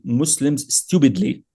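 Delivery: "stupidly" drawn out slowly with weight; stress on stupidly. Real, not acted. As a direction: lean hard into "stupidly". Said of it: "I'd like to emphasize the word stupidly".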